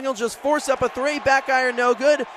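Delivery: brisk play-by-play burst; quick excited call. Real, not acted. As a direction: snap out the miss for listeners. Missed three-pointer.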